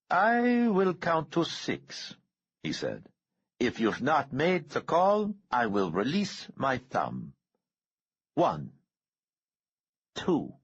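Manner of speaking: high, slow, deliberate menace; menacing countdown. A narrator's reading. Bomber counting down to make Trask call, slow and menacing. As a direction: count it out like a ticking bomb.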